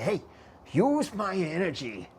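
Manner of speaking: lightly acted summons, stretching the words; retold invocation. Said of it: "I invoke those spirits".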